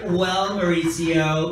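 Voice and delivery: lightly voiced seasoned old-timer; LA veteran. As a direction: act the veteran who has been here forever. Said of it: "because she had been a-, here for a long time".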